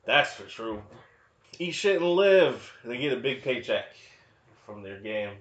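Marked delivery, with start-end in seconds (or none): 1.6-2.7 loud, high, drawn-out mock yell; acted insult. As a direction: hurl it slowly like a movie insult. Acting out the film's insult.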